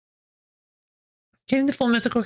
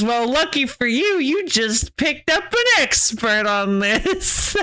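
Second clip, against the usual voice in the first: smug expert. Retold or imitated. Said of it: "And I was like".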